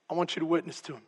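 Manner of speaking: quiet voice of God. Retold or imitated. Voice of the Lord retold.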